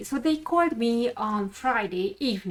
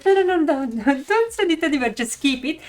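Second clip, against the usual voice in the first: laughing refusal; 4 semitones higher, 4 dB louder, much faster than usual. Retold or imitated.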